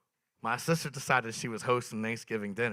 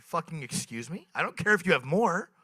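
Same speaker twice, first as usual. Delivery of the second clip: higher and louder, rising to a shriek; panicked outrage; 9 semitones higher, 10 dB louder than usual. Retold or imitated. Comic retells yelling at his sister over the meth cigarette, panicked. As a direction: freak out in disbelief. Retold panic at being drugged.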